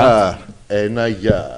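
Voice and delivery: slow low hello. Acted. Mock greeting, slow and low.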